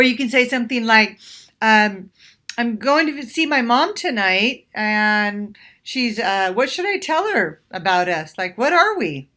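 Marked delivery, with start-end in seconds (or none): 2.6-9.3 light and playful. Shown as a demonstration. Woman teasing her date about their status, playful. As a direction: keep it breezy and fun, ending in a rising us. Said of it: "make it light and playful and say it like that".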